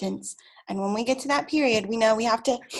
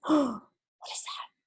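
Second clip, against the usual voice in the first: mock surprise; 4 dB quieter than usual.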